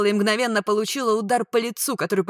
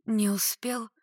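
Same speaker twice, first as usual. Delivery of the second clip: small, plaintive question; 3 semitones higher, slower than usual. A narrator's reading. Woman turning to her rescuer, plaintive. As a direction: ask pitifully, pitch slightly lifted. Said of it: "Жалобно обратилась я к Марку".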